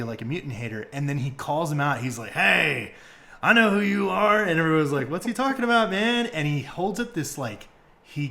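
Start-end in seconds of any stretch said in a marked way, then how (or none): 2.3-4.4 loud, raised challenge; acted call-out. Host as the hero exposing a fake hater, loud call-out. Wolverine calling the leader out. 5.1-6.3 high, loud puzzled crowd voice; acted bafflement. Host as the confused crowd reacting, high baffled question.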